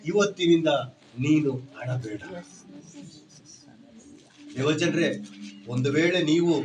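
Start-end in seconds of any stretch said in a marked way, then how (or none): 0.0-2.2 tender comfort. Acted. Sudden soft comfort after shouting.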